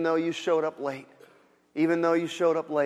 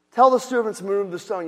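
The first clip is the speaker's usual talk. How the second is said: louder, stressing "Tell"; forceful louder restatement; emphatic repeat; 4 semitones higher, 8 dB louder than usual. Shown as a demonstration. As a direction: hammer the command home. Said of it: "repeated with emphasis".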